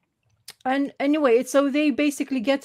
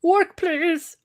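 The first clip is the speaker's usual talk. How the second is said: pleading with a machine; 2 semitones higher than usual. Real, not acted. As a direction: coax the tablet to work. Begging the tablet to work.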